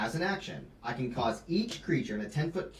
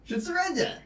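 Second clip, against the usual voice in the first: high, loud demand to surrender; commanding call; 13 semitones higher, 5 dB louder than usual. Acted.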